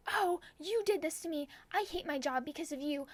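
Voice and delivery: high-pitched imitation of an angry rant; mock yelling. Angry old bus driver blames the passenger, mock yelling. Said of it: "he was yelling at me".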